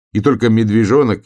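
ordinary delivery, nothing marked

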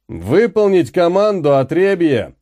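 громко и выше, презрительный окрик; рявкни на пленных; гаркнул. Acted. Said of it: "гаркнул командир". (командир громко гаркает на беглецов)

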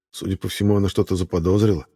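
plain reading voice

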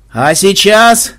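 slow drawn-out announcer call; lightly howled announcement; howling herald. A narrator's reading. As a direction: stretch it out like a herald working the crowd. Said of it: "завывал глашатай".

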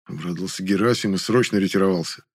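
usual speaking voice

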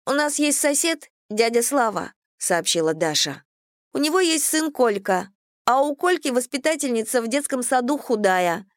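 put-on high, innocent child voice; little girl voice. A narrator's reading. Child Dasha speaks at table.

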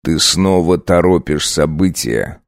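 grind it out through the teeth; through gritted teeth. Acted. Husband warns his wife through gritted teeth. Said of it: "процедил сквозь зубы".

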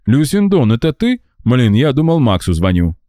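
high, startled; surprised. A narrator's reading. Gera surprised Lucinda answered, high startled. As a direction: caught off guard by who answered.

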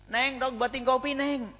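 high, slow sweet coax; coaxing husband. Acted. Husband gently asking his wife for coffee.

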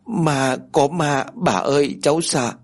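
put-on a child talking through light sobs; a touch of a scared, sobbing child; lightly voiced hiccuping sobs. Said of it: "Nó vừa nấc vừa nói".

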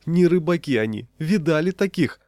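high, indignant wail; anguished outcry. A narrator's reading. Peddler complaining about the customers, high anguished cry. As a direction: appeal to onlookers in torment. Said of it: "с мукой в голосе".

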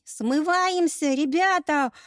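high, loud, slow squealing cry; panicked squeal. Acted. Youngest robber yelling to his mates to flee, panicked squeal. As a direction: shriek for the gang to run. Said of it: "взвизгнул самый молоденький".

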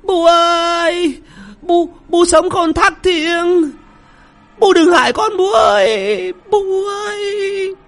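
very high, slow wailing plea; terrified pleading. A narrator's reading. Daughter-in-law begging the ghost not to scare her, wailing. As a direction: beg the ghost for mercy, trembling through it. Wife begs ghost, shouting.

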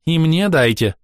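indignant baroness demanding popcorn. A narrator's reading. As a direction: demand your share, offended. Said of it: "возмутилась чёрная баронесса".

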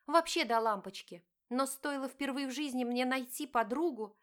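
wife confronting her cheating husband, pained; hurt wife. Acted. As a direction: plead and accuse at once. Diana argues with husband.

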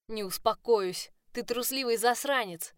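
furious insult. A narrator's reading. She insults him, shoving.

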